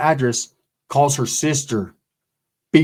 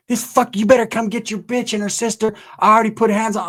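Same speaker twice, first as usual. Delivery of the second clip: pitched-up mock scream from the wife; wife yelling down the phone, higher and urgent; 6 semitones higher than usual. Wife screaming on the phone about the fight, mock yell. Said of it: "And she's screaming".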